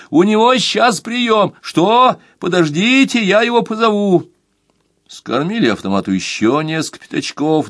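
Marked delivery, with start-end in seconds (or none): 0.1-4.3 high woman's voice through a crackling line; female voice on the phone. Acted. Receptionist tells the caller to wait, in a high woman's voice. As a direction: play the receptionist, pitched higher. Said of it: "пробился женский голос".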